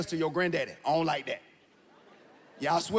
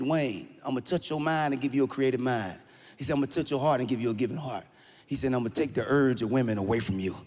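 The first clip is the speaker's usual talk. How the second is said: God's voice; 9 semitones lower than usual. Acted. God speaking to young Wayne in a dream, low and solemn.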